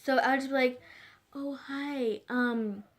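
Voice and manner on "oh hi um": lightly put-on soft, sweet voice; a hint of shy, polite fakeness, softly; fake shy voice. Shown as a demonstration. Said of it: "I have this fake voice".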